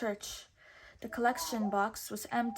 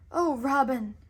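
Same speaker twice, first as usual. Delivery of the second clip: swooning maiden; 3 semitones higher, 6 dB louder than usual. A narrator's reading. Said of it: "she cried".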